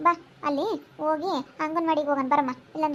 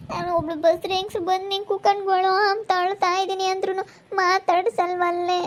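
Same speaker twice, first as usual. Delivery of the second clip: crying; 3 semitones higher than usual. Acted. Wife crying to her friend that nobody speaks to her. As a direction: sob the last word out. Crying about being ignored.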